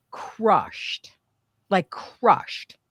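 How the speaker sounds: whispered, breathless crushed; a hurt whisper, barely voiced. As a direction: let the word collapse into a whisper. Telling of heartbreak over conversion.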